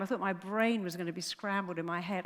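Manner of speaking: ordinary delivery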